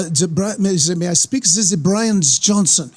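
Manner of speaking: slow put-on German accent; mock German phone voice; German lady imitation. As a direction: play the German caller slowly. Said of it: "he's trying to imitate".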